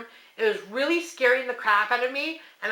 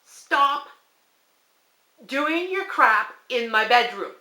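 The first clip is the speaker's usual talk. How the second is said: firm plea; 3 semitones higher than usual. Retold or imitated. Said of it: "I said out loud".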